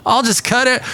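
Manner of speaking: put-on high silly voice for the careless kid; mock dumb kid. Podcaster mocking the cable kid, high goofy voice. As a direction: mimic the clueless cable guy. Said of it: "This is how he sounded".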